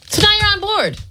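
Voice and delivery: suddenly high and loud; loud outburst. Real, not acted. Co-host teasing the host, bursting out high and loud. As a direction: blurt it out way up and loud. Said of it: "Why are you screaming at me?".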